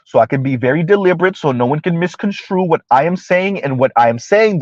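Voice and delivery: measured, deliberate delivery; slow and deliberate. Real, not acted. Host making sure no one misconstrues, deliberate. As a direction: spell it out carefully. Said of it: "Mister Z is gonna talk slow".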